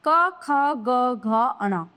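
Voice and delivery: each letter of the क row said slowly and apart, क ख ग घ अण; teacher reciting क, ख, ग to students, slow and distinct; slow letter recitation. Shown as a demonstration. Teacher slowly sounding out क ख ग for the class. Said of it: "क वर्ग".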